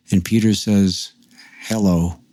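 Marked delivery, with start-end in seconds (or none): 1.6-2.2 imitating an expressionless phone greeting; deadpan. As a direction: answer as a blank, toneless caller. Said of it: "in a really deadpan voice".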